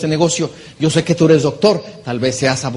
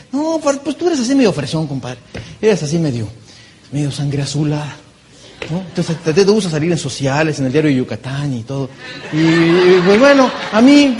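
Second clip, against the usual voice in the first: teasing reply. Retold or imitated.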